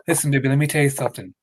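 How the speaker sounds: fast, lightly voiced Dusty lisp; Dusty Rhodes impression. Friend shows how Dusty is done, mock scolding. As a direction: scold him like a mock southern preacher. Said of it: "See, that's good".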